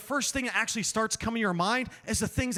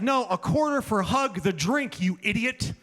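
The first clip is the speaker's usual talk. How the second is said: put-on kid voice; 2 semitones higher than usual. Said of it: "And he said".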